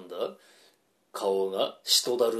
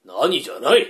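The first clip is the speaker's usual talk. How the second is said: scolding; 2 semitones higher, 4 dB louder than usual. Acted. Husband scolds his wife.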